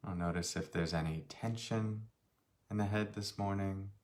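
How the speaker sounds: unhurried meditation guide, long pauses between phrases; slightly softened voice, leaving space after each phrase; guided meditation. Real, not acted. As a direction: guide them gently through a body scan. Leads a meditation.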